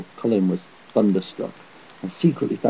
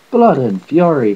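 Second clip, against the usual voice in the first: raised, drawn-out storyteller's shout; shouted oath; 4 semitones higher, 5 dB louder, slower than usual. A narrator's reading. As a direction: bellow it slowly in outrage. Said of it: "he shouted".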